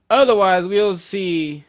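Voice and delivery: sudden loud menacing threat; villain threat. Pretend. Villain booming a threat at captive giants.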